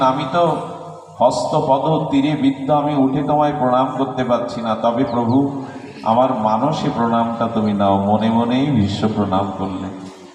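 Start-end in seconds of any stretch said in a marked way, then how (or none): none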